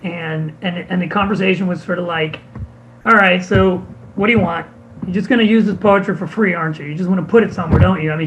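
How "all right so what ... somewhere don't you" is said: louder, mildly indignant accusing quote; mock annoyed retelling of her challenge; retold pissed-off complaint. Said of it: "she was, like, pissed".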